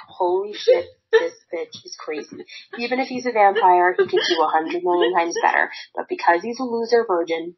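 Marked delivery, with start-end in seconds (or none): 0.1-2.4 mock freaked-out guy. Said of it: "any other guy would be like".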